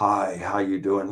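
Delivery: put-on mechanical, machine-like robotic voice with echo. Retelling how a man repeated the speaker's greeting back, imitating his robotic voice. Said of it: "in this robotic type of voice".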